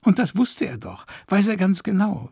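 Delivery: a touch of whimpering hurt; understated whimpering grief; mild whimper. Acted. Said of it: "wimmerte es aus ihr heraus".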